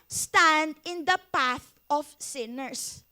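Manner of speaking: slow, deliberate scripture reading; scripture read slowly. Shown as a demonstration. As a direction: read the verse word by word. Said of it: "Yan o".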